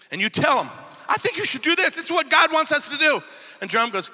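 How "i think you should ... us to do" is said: higher, earnest acted urging; eager pitching. Church member telling the leader a plan, eager high-pitched urging. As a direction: push the idea eagerly, voice raised in pitch.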